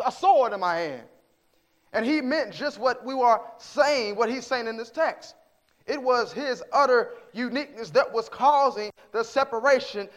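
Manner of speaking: forceful, emphatic sermon delivery; preaching. Real, not acted. Preacher explains Jesus' divisive uniqueness to the congregation, preaching forcefully. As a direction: drive each phrase home from the pulpit.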